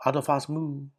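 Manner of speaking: "atafasmu" with no break before "mu"; "atafasmu" closely linked, not two separate words; run together as one word. Shown as a demonstration. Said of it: "it sounds like one word".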